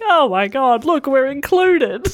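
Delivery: slow, mildly mock-awed delight; retold excitement. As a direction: act out wonder at being noticed. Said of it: "I was like".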